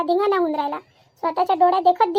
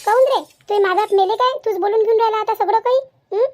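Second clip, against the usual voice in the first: angry scolding. Acted. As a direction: scold him hard. Mother scolds son angrily.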